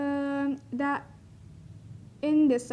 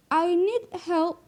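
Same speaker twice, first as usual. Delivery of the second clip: "I need help" said slowly with raised pitch; slow demo; 4 semitones higher, slower than usual. Shown as a demonstration. Teacher reads the example sentence aloud, slow. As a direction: draw out "I need help" word by word. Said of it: "then it would be like that".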